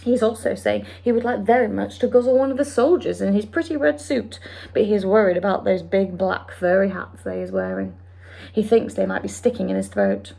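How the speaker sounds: quick, lightly voiced friendly giant; BFG voice. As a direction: explain it like the big friendly giant. BFG speech.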